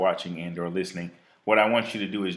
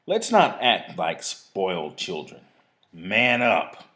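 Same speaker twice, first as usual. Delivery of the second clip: measured, emphatic reading of an inspirational piece; spoken-word recital; written piece read aloud; 3 semitones higher, 4 dB louder than usual. Real, not acted. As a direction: read it out with deliberate, punched phrases. Reads own writing aloud to listeners.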